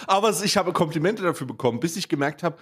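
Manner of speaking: fast, laughing through words; laughing while talking. Real, not acted.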